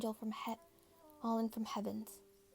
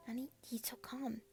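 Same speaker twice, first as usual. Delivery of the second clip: hushed wonder; 4 dB quieter than usual. Acted. Girl entranced by siren's song.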